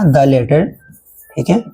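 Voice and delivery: slow dictation with long pauses between words; teacher dictating the definition slowly. Shown as a demonstration. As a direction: dictate it word by word for notes. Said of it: "dictating a definition".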